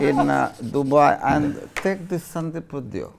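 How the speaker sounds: mock Russian accent, bossy and amused; put-on Russian accent giving orders. Sandeep as a Russian businessman gives Anastasia orders, mock Russian accent. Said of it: "Russian entrepreneur".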